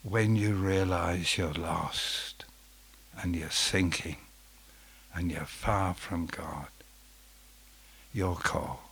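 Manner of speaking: hushed, whispered appeal; a preacher whispering to a lost listener; preacher's whisper. Acted. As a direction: lean in and whisper it.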